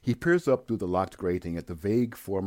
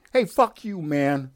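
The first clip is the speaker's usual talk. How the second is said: much higher, louder furious yell; angry yelling; 8 semitones higher, 7 dB louder, slower than usual. Acted. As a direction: yell back at the bird. Yelling back at seagull.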